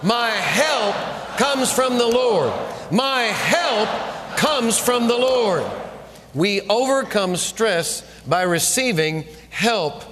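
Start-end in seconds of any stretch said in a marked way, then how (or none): 0.0-5.6 repeated declaration. Shown as a demonstration. Preacher declaring the verse three times with the congregation. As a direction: proclaim it, leaning on comes. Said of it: "Say it three times".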